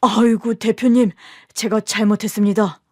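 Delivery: bow and beg forgiveness; groveling apology. Acted. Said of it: "황급히 애 아빠한테 고개를 숙이더라고요".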